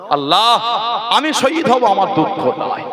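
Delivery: mildly acted cry to Allah, lifting then settling; retold tearful plea. Abandoned envoy calls on Allah, imitated tearful plea. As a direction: plead to God with a touch of weeping. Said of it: "হুজুর দাঁড়িয়ে দাঁড়িয়ে কাঁদছে".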